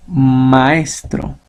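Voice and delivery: "maestro" drawn out slowly on the stressed E; slow teacher's demo of the stress in "maestro"; stress on second-to-last syllable. Shown as a demonstration. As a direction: stretch it as ma-EEES-tro, "maestro". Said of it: "¿Dónde está? En la segunda posición".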